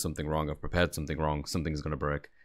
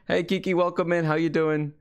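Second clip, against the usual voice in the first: excited greeting; 8 semitones higher than usual. Real, not acted. Greeting a chat viewer.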